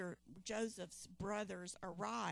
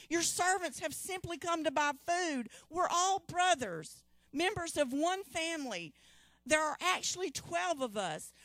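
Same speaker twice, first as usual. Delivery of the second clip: higher, louder anxious pleading; pleading brothers; 5 semitones higher, 7 dB louder than usual. Acted. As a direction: beg the lord to believe them.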